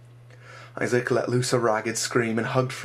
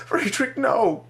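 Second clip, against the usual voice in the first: high, loud cry of a name; anguished shout; 12 semitones higher, 5 dB louder, much slower than usual. Acted. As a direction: scream his name in panic. Screaming over dead friend.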